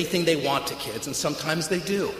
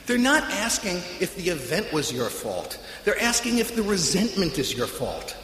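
calm sponsor; 3 dB quieter than usual. Retold or imitated. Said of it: "He said".

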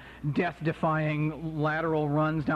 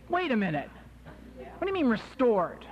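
indignant, higher-pitched protest; mock indignation; 5 semitones higher than usual. Comic objecting to AA's restored to sanity, indignant. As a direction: object as if insulted.

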